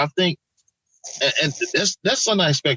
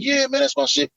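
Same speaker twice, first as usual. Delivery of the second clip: mock hype; 11 semitones higher than usual.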